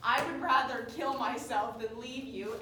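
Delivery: half-scream it like a tragic heroine; imitated screaming protest. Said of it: "She's screaming".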